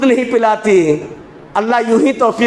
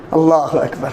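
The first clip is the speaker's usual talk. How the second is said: low collective shout of اللہ اکبر; the crowd answers together; crowd takbir; 8 semitones lower than usual. Real, not acted. Congregation answers the preacher with a low takbir.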